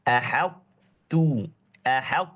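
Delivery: "ahattu" very slow, t held without release; stretched "ahattu" with no qalqalah; correct ahattu. Shown as a demonstration. Teacher showing the proper reading slowly. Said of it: "bukan ahattu, tapi".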